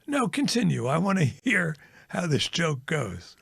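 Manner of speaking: lightly voiced officer inviting him to go on; a hint of a cold superior; boss voice. Boss cuts in on joke.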